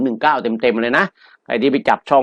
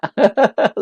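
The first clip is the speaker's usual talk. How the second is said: short high-pitched laugh; high, delighted chuckle; gleeful laugh; 10 semitones higher than usual. Real, not acted. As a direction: laugh over someone's big win. Delighted over a member's big win.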